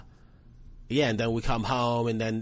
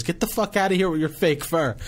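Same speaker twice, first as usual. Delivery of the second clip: mock yell; 6 semitones higher, 4 dB louder than usual. Woman in crowd yells at girl.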